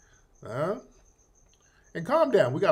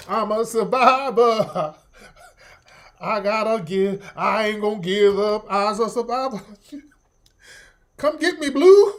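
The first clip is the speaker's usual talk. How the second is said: high, laughing mock diva singing; high laughing diva caricature; mock pop singer; 6 semitones higher, 6 dB louder than usual. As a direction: ham up a struggling pop diva. Mocking a singer singing on stage.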